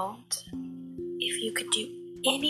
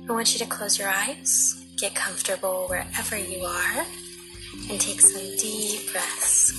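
guided meditation. Acted. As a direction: guide them gently into relaxation.

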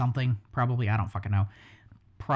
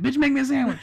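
bossy macho voice; 10 semitones higher, 6 dB louder, faster than usual. Retold or imitated. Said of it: "when he's like".

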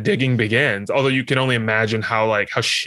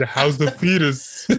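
laughing quote; 4 semitones higher, slower than usual. Retold or imitated. Retelling absurd quote, laughing.

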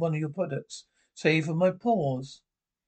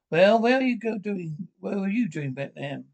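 raised, louder challenge; indignant challenge; 3 semitones higher, 4 dB louder than usual. Acted. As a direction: demand an answer, voice going up and louder. Acted quarrel, challenging someone.

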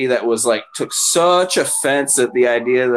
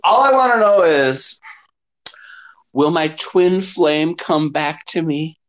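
mock client; 3 semitones higher than usual.

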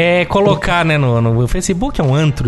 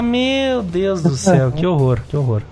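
weary dismay, slow; slower than usual. Retold or imitated. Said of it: "você fala".

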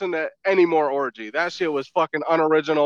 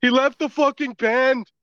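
imitating cowboy voice; 7 semitones higher, slower than usual. Copies friend's delivery.

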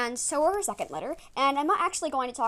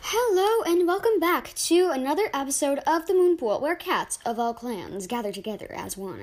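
odd intro delivery; 7 dB louder than usual. Real, not acted. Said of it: "I don't know why I said it like that".

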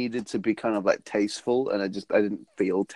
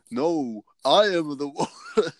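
mock cry; 4 semitones higher, slower than usual. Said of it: "John turns to me and cries".

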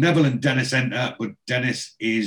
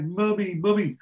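put-on higher, babyish whimpered calls of mummy; imitating a crying baby; 8 semitones higher than usual. Christine fakes a crying baby to end Brenda's phone call, mock baby wail. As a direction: play the baby wailing for its mother, lightly. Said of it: "she imitates the crying baby".

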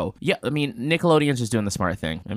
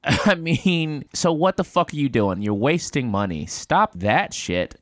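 exasperated rant; 7 semitones higher, 3 dB louder than usual. Real, not acted.

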